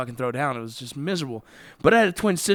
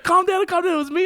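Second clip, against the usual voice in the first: mock calming; 12 semitones higher than usual. Friend imitating the sister's friend, high urgent plea. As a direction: squeal it to stop the fight.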